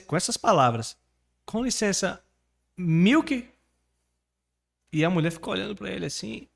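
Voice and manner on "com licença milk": "milk" said as "miuke", ending in a questioning rise; a hesitant tourist asking for milk, rising at the end; imitating a broken-English tourist. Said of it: "falou bem assim". (turista perguntando "milk" com sotaque brasileiro)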